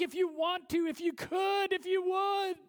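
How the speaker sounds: mock doubtful asking, pitch up; tentative, unsure plea; lightly voiced doubtful father; hesitant asking. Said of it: "It's almost like".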